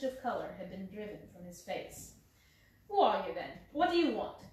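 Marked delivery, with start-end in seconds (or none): 2.9-4.4 startled man, scared and defensive; quavering. Acted. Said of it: "he asked in a quavering voice".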